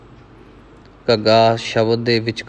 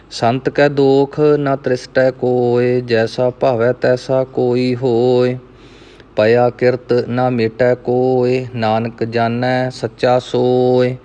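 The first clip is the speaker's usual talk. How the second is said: measured Gurbani recitation, evenly pitched; scripture recitation; slower than usual. Acted. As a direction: recite verse by verse, drawing out line endings. Recites scripture between explanations. (ਸਹਿਜ ਨਾਲ ਗੁਰਬਾਣੀ ਪਾਠ)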